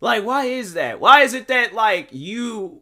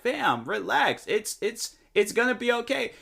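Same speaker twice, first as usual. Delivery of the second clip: higher, softer calming of a friend; mock reassurance; 6 semitones higher, 3 dB quieter than usual. Telling an offended friend to relax, mock reassurance.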